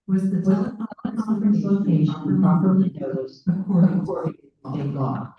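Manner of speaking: loud, deliberate question; to someone hard of hearing. Real, not acted. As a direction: push the words out to be heard. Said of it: "Can you speak louder".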